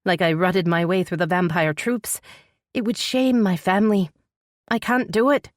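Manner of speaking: upset, high-pitched refusal; anguished heroine. Acted. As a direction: plead your case, pitch climbing at the end.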